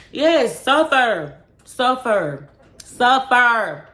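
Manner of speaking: high, loud, punched-out gloat; gloating shout. Real, not acted. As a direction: shout it like a curse at your ex. Gloating at jailed ex's suffering.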